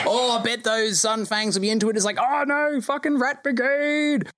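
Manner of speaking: high, excited gossiping crowd voices; gossiping townsfolk. Acted. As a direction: chatter like nervous townsfolk.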